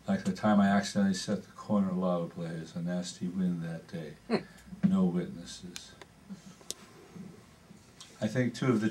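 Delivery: measured prose-poem reading with deliberate pauses. Acted. Poet reading Criminal to an audience, measured recital. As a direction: read it out phrase by phrase, understated.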